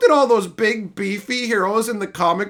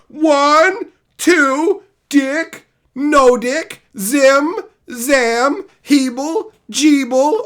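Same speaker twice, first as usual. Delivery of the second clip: mock panic; 7 semitones higher, 6 dB louder, much slower than usual. Mocking gender guessing.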